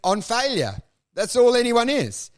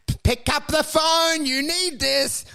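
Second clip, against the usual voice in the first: higher, insistent caller voice; mock urgent plea; 6 semitones higher than usual. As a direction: beg them to answer, stretching the last words. Acts out frantic gossip call.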